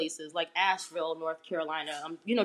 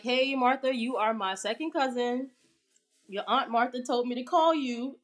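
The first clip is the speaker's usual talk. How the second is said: higher, bright retold hello; eager greeting; 6 semitones higher than usual. Retelling her first call to cousin Martha, excited. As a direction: greet the cousin like big news.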